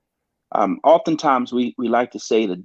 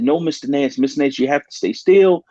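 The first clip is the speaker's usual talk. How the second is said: higher-pitched, imitating staff urging a patient; mildly insistent, in a higher retold voice; retold urgent restraint; 5 semitones higher than usual. Medical staff to a patient trying to jump up, urgent restraint.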